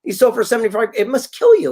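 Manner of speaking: high-pitched disbelief; incredulous. Retold or imitated. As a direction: act out amazed disbelief at the deal. Incredulous at the low sale price.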